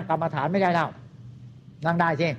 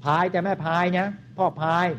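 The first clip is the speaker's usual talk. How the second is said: put-on old saying recited. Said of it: "โบราณท่านว่าไว้".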